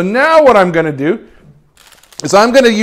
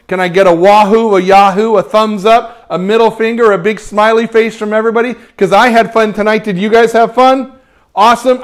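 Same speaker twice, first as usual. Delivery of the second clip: louder, upbeat rallying call; hyped sign-off; 4 semitones higher, 5 dB louder than usual. Real, not acted. Host rallies his livestream viewers for reactions, hyped and loud. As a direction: pump up the crowd.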